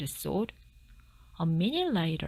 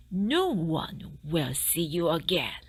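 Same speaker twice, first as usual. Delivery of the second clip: a hint of a sly whisper to himself. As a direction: mutter it slyly under the breath. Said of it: "said the fox to himself".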